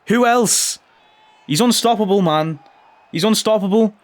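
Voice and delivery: goal celebration. Real, not acted. Celebrating Elliott's goal, thrilled cheering. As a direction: cheer the scorer.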